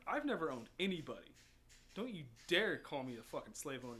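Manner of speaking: mild reenacted anger; retold angry confrontation. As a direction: push back at an accuser. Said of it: "got right in his face".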